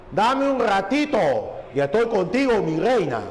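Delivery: un ligero dejo cubano de La Habana; dejo habanero. Shown as a demonstration. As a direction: insinuar el acento habanero, sin exagerar. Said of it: "con dejo de La Habana". (un toque de acento de La Habana)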